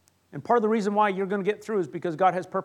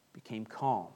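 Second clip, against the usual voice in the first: much lower and softer, hushed; calm; 9 semitones lower, 9 dB quieter than usual. A narrator's reading. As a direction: let the words sink to stillness. Narrating the storm's calming.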